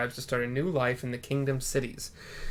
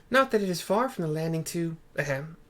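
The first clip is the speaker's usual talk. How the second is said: Totaru voice; 4 semitones higher than usual. Acted. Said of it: "says Totaru".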